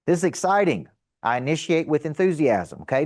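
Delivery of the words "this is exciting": fast, eager and upbeat hello on the phone; enthusiastic phone greeting. Shown as a demonstration. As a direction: sell your excitement from the first word. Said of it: "You pick up and you say".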